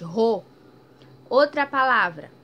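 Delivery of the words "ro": "Ro" loud with strong R. Shown as a demonstration. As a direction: punch the R of "Ro". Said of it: "Teve um som forte". ("Ro" com R forte)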